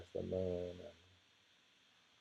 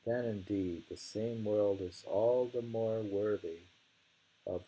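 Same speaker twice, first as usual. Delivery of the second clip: poem reading. Acted. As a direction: savour each line of the verse.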